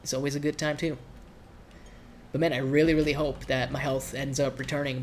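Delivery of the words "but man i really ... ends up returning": stuffy nasal voice from a cold. Real, not acted. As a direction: talk through a blocked, nasal nose. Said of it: "I have, like, a nasally voice".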